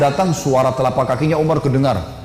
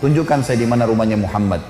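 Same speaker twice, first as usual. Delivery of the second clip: lowered, gentled request; hard man turned gentle, pitched low; suddenly softened voice; 5 semitones lower than usual. Acted. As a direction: drop the pitch and ask gently. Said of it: "Tiba-tiba jadi lembut suaranya".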